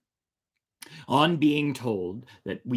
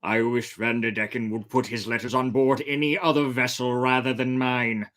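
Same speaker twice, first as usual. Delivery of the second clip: firm; 3 semitones higher, 4 dB louder than usual. Acted. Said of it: "said as firmly as he could".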